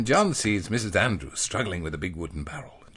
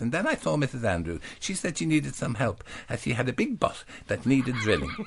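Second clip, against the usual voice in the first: innocent John; 3 semitones higher than usual. Acted. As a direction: tell it all with wide-eyed innocence.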